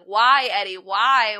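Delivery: mock yell. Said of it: "Sammy the whole time is yelling".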